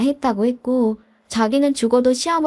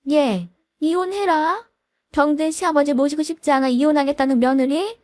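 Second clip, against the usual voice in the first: mock yelling mother-in-law; 3 semitones higher than usual. Mother-in-law scolding son and his wife, mock outrage. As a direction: berate them with rhetorical questions, voice lifted. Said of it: "막 달려들면서 소리 질러대기만 하고".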